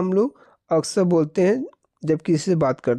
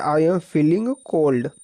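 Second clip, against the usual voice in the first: slow dictation; much slower than usual. Shown as a demonstration. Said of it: "आप लोग ये बोल सकते हैं".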